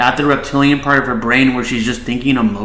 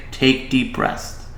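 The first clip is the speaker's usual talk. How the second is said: softer and slow, one calm instruction; calm directive; 6 dB quieter, slower than usual. Shown as a demonstration. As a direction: gently model it for an upset child. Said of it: "all you have to do is say".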